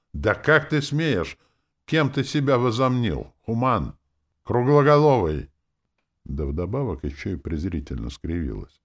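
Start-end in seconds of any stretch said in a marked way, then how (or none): 0.1-5.5 higher, louder furious princess; indignant outburst. A narrator's reading. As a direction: lash out at the upstart human. Offended princess lashes out. (принцесса в ярости кричит на человека)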